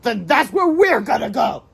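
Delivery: slow, high, loud and menacing; villain voice. Acted. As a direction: drag it out like a plotting villain.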